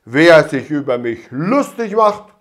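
loud, slowed ranting of an offended official; furious outburst. A narrator's reading. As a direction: shout each insult in a rage. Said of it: "bekam einen Wutanfall".

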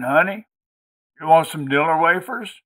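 high-pitched country woman offering treats; country hostess. A narrator's reading. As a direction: coax a guest in a high, folksy voice. Maudie offers the boy treats.

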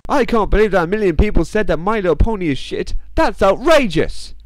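high-pitched, hammed-up indignation; exaggerated fake shock; mock outrage. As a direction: act scandalised, pitch way up, stretching the last phrase. Mock outrage at poll claim.

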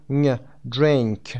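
blended n-g sound in "Drink"; nasal ng sound. Shown as a demonstration. Teacher showing learners how n and g combine, "Drink" with blended ng. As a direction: say "Drink" with ن and گ merged into one ng.

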